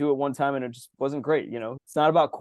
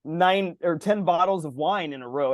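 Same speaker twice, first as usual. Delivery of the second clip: higher, slowed mock complaint about sweets; mock whine about endless sweets, in a higher voice; hammed-up overwhelmed griping; 5 semitones higher, slower than usual. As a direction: moan it out, stretching the words. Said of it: "I'm like".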